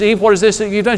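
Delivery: high loud questioning voice; God questioning Eve. Retold or imitated. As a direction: demand an answer from Eve.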